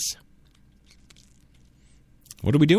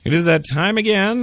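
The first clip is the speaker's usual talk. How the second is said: announcer shout; 7 semitones higher than usual. Real, not acted. Announcing the show's close.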